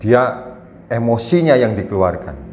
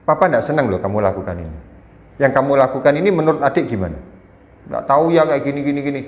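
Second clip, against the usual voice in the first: firm questioning; 3 semitones higher, faster than usual. Shown as a demonstration. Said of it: "kita dengan intonasi, Amarah itu maksudnya gini".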